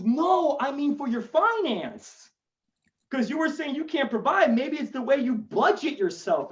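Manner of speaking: lightly voiced unconcerned white guy. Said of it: "like, this white guy".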